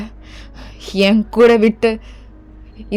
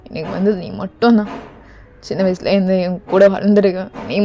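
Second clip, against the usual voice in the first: tearful pleading. Acted. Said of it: "நீ ஏன்டா அப்படி அழுதுட்டு நிக்கிற?". (அழுகையுடன் மென்மையான கெஞ்சல்)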